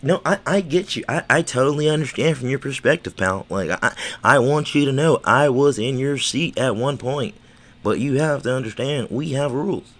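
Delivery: a lightly mocked smug boss talking down; mock condescending boss. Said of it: "I hate when people, uh, even bosses".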